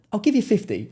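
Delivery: high, loud Cockney haggler; retold Cockney, high and loud; Cockney Dave. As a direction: make the offer as an imitated Cockney, pitched right up. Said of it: "I call him Cockney Dave".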